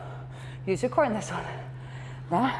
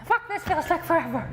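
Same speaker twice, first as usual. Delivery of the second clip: laughing; 3 semitones higher than usual. Real, not acted. Instructor struggling mid-workout.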